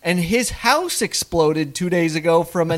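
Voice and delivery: a hint of gossiping mom; mother voice. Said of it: "as she then says".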